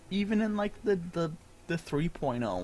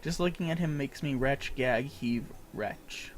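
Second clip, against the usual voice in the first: lightly voiced sneering creature; mock disgust at a hairless one; disgusted beast tribe voice. Kobold enemy sneers at the hairless adventurer, mild disgust. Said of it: "I hate the way they talk".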